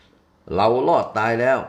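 slow, loud drawn-out cry of relief; relieved cry. Acted. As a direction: shout we survived, overjoyed. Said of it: "ด้วยความดีใจ". (ร้องลั่นด้วยความโล่งใจ)

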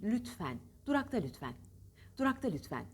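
lütfen ending on an open E. Shown as a demonstration. Teacher models lütfen with an open final e. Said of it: "E gibi çıkmalı".

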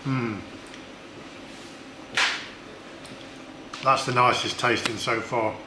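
chewing while talking; speaking between bites; mouth partly full. Real, not acted. Seen 0: Blindfolded taster ate beans just before; mouth working while speaking.

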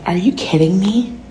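mock shocked whisper with high Really; whispered outrage. Imitating outraged people, mostly whispering. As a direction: whisper the disbelief. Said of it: "the rest of y'all are like".

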